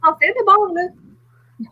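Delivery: slow teasing French, half-joking; mock French. Teasing a fellow reader in slow mock French. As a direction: stretch it out like a playful joke. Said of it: "Oh, sorry, I'm kidding".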